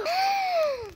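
high gasp of wonder; amazed gasp. Acted. Child finds lots of little coconuts, amazed gasp. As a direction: gasp at a great find.

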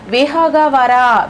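విహగవర drawn out slowly, each syllable spelt out; slow emphasis. Shown as a demonstration. Teacher showing students a word, drawn out slowly. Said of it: "విహగము అంటే ఏంటి?".

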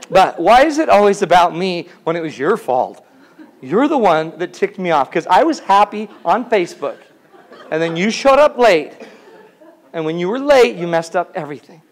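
playful whiny tirade; mock blaming rant. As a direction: blame everyone, whining.

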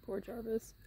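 whispered "Poor Jarvis", breathy and soft. Real, not acted. Owner whispering pity for her lonely horse, soft whisper.

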